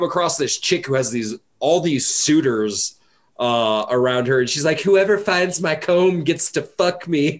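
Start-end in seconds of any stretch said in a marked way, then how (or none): 4.8-7.4 slow, drawled New York woman voice; New York accent. Retold or imitated. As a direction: play her with a lazy New York accent. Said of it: "is she from New York? That accent's".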